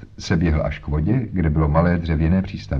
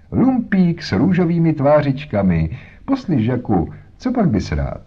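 put-on higher-pitched sweet talk to a small boy; coaxing a child; 7 semitones higher than usual. A narrator's reading. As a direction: flatter the little one playfully. (lichotivé oslovení dítěte)

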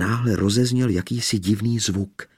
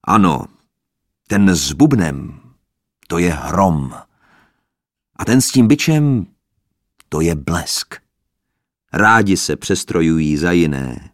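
breathless woman; 7 dB louder than usual. Acted. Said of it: "dosud zadýchaná od smíchu".

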